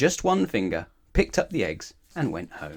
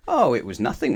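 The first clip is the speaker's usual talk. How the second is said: modest; 2 semitones higher, 3 dB louder than usual. Acted. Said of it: "remarked Mister Strong modestly".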